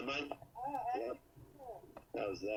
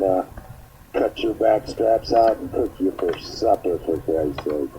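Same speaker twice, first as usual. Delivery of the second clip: louder, lower tough-redneck boast; hillbilly redneck brag; 5 semitones lower, 4 dB louder than usual. Acted. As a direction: puff up like a menacing backwoods redneck. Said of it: "somebody calls me a hillbilly hick".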